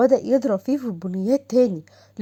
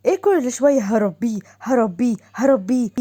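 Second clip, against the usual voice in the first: mocking هربيه with a scornful rise, a bit louder; mocking repetition; 4 dB louder than usual. Wife mocks husband's threat, repeating هربيه with scornful rising tone. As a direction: throw his word back at him, mocking.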